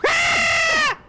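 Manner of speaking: piercing scream of fright; high shriek. Acted. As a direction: shriek at a ghost. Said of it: "That was the best shriek".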